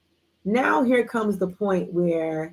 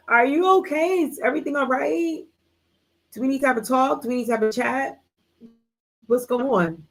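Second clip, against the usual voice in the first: higher-pitched mock concern, rising questions; concerned questioning; 5 semitones higher than usual. Friend asking if everything is all right, mock concern. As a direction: imitate a friend pointedly checking in.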